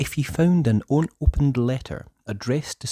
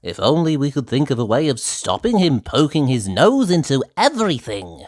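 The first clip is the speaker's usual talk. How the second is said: painter voice; 3 semitones higher, 4 dB louder than usual. Acted. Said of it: "said Mister Brush".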